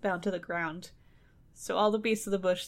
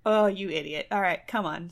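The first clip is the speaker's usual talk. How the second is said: exasperated wife. Retold or imitated. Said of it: "She's like".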